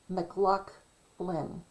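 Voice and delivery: McLaughlin said slowly the Scottish way, with a throaty ch and no F sound; Scottish pronunciation. Shown as a demonstration. Showing viewers the Scottish way to say McLaughlin, slow and careful. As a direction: stretch out McLaughlin with a Scottish guttural ch. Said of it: "it's Scottish".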